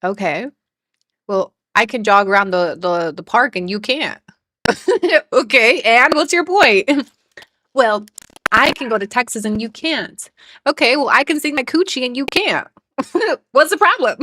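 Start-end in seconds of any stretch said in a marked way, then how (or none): 1.3-4.2 mock bratty. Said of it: "her emphasis". 8.5-12.7 mock bratty. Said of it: "her emphasis".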